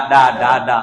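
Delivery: put-on ডা babbled like a toddler without teeth; lightly imitated baby saying ডা; baby babble. Shown as a demonstration. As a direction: repeat ডা as a baby would. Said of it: "মূলত এটা উচ্চারণ করে ডা".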